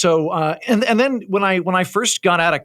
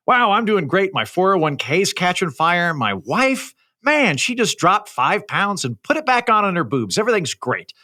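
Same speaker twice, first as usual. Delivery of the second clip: higher, upbeat parody of self-satisfaction; mock bragging comic; 5 semitones higher than usual. Suited comic boasting to an audience, hammed-up self-satisfaction. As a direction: gush like a successful guy showing off. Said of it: "have a guy in a suit come up and go".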